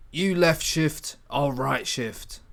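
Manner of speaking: slow, deliberate reading of "You left shift, I'll right shift."; slow careful read. Shown as a demonstration. The first read of the line that sounds unnatural, slow and careful. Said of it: "That doesn't sound very natural".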